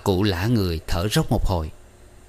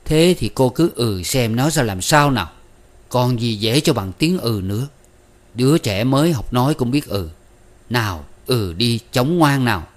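louder, higher pushy coaxing in a changed voice; urging; 3 semitones higher, 4 dB louder than usual. Acted. Tài urging the teacher to agree, loud and pushy. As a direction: press her to say yes, teasing and insistent. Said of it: "Tài dục".

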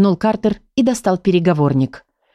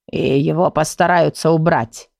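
thoughtful drawl; 3 semitones lower than usual. Acted. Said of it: "задумчиво протянул Ворчун".

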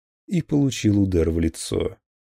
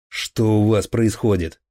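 louder demand, pitch barely lifted; shouted demand; 2 semitones higher, 5 dB louder than usual. Acted. Colonel bursts in shouting at the officers. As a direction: call out what is going on. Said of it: "он закричал".

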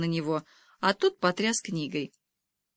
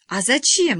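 higher, louder baffled question; puzzled; 6 semitones higher, 7 dB louder, slower than usual. A narrator's reading. Girl asks why the name changed, puzzled. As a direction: ask in mild bewilderment. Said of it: "недоумевала Лизавета".

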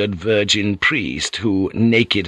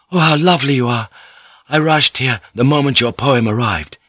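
put-on eager, higher, louder young man; breathless young lover; 3 semitones higher, 4 dB louder than usual. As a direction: gush it out of breath. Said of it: "he said breathlessly".

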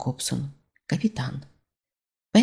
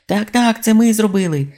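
higher, louder eager shout; shouted from inside; 7 semitones higher, 5 dB louder than usual. A narrator's reading. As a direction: yell it out from the building. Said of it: "прокричав голос із будівлі".

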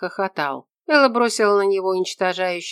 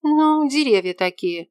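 put-on higher, slower girl's voice, patient; young woman explaining; 9 semitones higher, 5 dB louder than usual. A narrator's reading. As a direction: spell it out like to a slow man.

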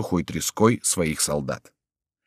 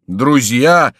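loud, raised exclamation; astonished cry; 4 semitones higher, 7 dB louder than usual. A narrator's reading. Beaten townsfolk learning their mistake, crying out. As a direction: echo the word in disbelief. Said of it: "вскричали избитые усталые граждане".

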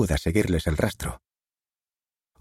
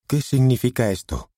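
sharp, raised, angry question; angry demand; 7 semitones higher, 4 dB louder than usual. A narrator's reading. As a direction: confront them angrily. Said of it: "Nos echó a Derek y a mí una mirada colérica".

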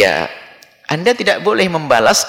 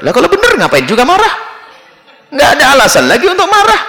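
amused laughing; 10 semitones higher, faster than usual. Real, not acted. Laughing rhetorical punchline.

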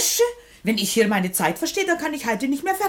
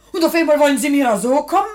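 indignant laugh; 3 semitones higher, 5 dB louder than usual. Acted. Washerwoman protests to official.

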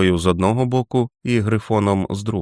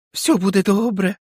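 put-on high, rapturous old man's chant of joy; old keeper greets his returned master in rapture; ecstatic old man; 12 semitones higher than usual. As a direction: babble it in holy joy. Old man kisses Jack's feet.

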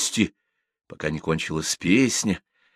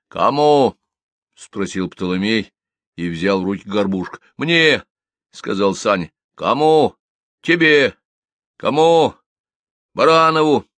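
quick bread-sharing game; 2 semitones higher, 5 dB louder than usual. Acted.

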